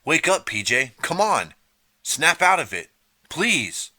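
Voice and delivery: very high, loud frantic pleading; frantic plea; desperate begging. A narrator's reading. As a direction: beg him frantically to wake. Artie begs PJ to wake.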